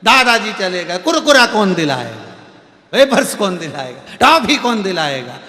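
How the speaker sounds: lightly voiced whiny child, laughing through it; a hint of a sobbing little boy; crying little grandson. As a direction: grandson wailing for his lost snacks, mock crying. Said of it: "छोटा सा बच्चा रो रहा था".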